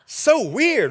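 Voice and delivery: drawn-out, swooping mock kid protest; imitating baffled kids. Kids questioning Mom's accent on a visit, mock bafflement. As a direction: whine it slowly like an embarrassed kid, ending high and loud. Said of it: "your kids are like".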